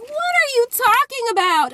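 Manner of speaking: high-pitched incredulous question; retold disbelief. Teller accused of stealing a car, incredulous replay. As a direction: squeal the question in mock bafflement.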